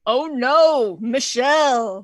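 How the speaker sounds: slow, loud punchline; drawn-out mock alarm; mock dismay. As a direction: cry out in hammed-up dismay. Joke punchline as Obama.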